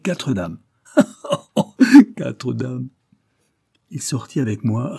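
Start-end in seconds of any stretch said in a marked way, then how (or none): 0.0-2.9 loud guffaw, then the words; still laughing. A narrator's reading. Priest savours his promise to the officer, still laughing. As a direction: burst out laughing before repeating it. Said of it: "riant toujours".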